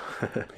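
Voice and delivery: soft, short little laugh; hushed imitation of a laugh; imitated eerie laugh. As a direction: mimic her quiet laugh. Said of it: "And she laughs".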